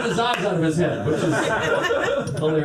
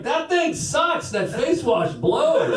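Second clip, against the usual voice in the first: mock complaining friend; 10 semitones higher, much slower than usual. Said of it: "He's like".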